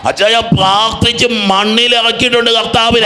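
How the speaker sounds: imitating a believer's fervent claim; fervent testimony. Repeats the quote with fervour.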